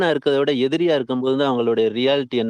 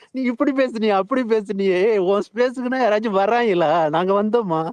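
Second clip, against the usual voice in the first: mocking taunt; 6 semitones higher than usual. Mocking taunting online critics.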